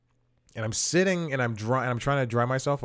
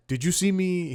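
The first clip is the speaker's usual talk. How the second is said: higher-pitched, lightly imitated Italian accent; a hint of Italian, pitched up; 8 semitones higher, 5 dB louder than usual. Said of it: "he has an accent".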